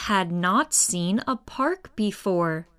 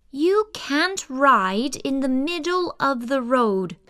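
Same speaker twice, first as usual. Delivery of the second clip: lightly voiced stern officer, a bit higher; police officer; 4 semitones higher than usual. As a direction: scold them like a firm policewoman. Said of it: "she said".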